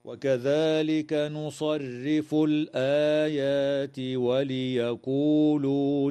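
slow melodic tajweed chant ending on a held يعلمون; full Quran recitation. Shown as a demonstration. Sheikh reciting the whole verse as a model, slow melodic chant. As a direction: intone the whole verse slowly, stretching the long vowels. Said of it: "هكذا".

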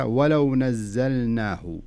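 ولو نزلناه recited slowly, the lam in ولو sounded; teacher's recitation demo. Shown as a demonstration. Teacher quotes the verse to student, slow and clear. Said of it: "في قوله تعالى".

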